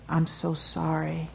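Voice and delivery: slow, on the edge of a sob; a father about to break down, slowly; tearful apology. A narrator's reading. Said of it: "He started to sob".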